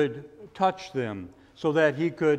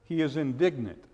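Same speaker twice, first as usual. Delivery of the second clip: softer, lower echo of He is indignant; quiet repeat; 3 semitones lower, 7 dB quieter, faster than usual. Shown as a demonstration. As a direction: let it sink, hushed and low. Repeated with contrasting emphasis.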